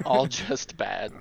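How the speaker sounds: slow echo. Real, not acted.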